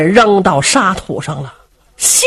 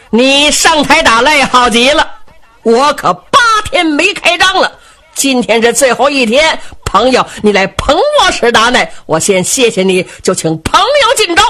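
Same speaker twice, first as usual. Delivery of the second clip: lightly voiced, higher-pitched arena boss greeting a challenger; hearty stage champion; 5 semitones higher than usual. Shi Danai inviting a challenger to fight, hearty champion. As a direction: welcome the challenger with showman's gusto. 史达奈台上招呼对手.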